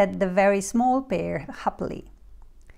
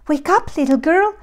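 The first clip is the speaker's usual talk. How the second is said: higher, loud mother bear call; middle-sized bear; 7 semitones higher, 6 dB louder, faster than usual. A narrator's reading. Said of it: "said the middle-sized bear".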